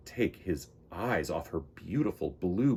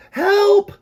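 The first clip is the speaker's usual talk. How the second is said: high, loud cry for help; shouting; 15 dB louder than usual. Acted. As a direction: scream it out. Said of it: "Pete shouted as loud as he could".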